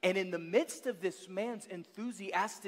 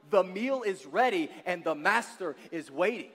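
the meal is ready and the master is waiting, declared louder with urgency; preached out; 6 dB louder than usual. Shown as a demonstration. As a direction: proclaim it to the whole room. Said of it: "I'm here to tell somebody this morning".

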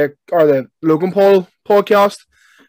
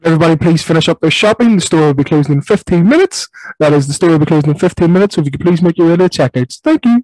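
supermarket announcement. Pretend. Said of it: "the Tannoy in Tesco's".

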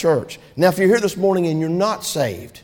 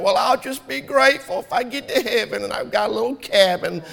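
pious tone; 3 semitones higher than usual. Retold or imitated. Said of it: "trying to sound spiritual".

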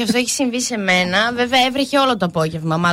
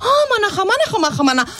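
mocking the guy; 7 semitones higher, faster than usual. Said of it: "γυρνάει και σου λέει".

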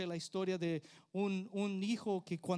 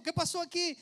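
surprised question; 11 semitones higher, 10 dB louder than usual. Retold or imitated. Husband surprised coming home.

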